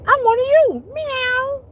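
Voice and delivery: very high, squeaky cat voice; playful high-pitched cat impersonation; pretend cat. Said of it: "I'd be like".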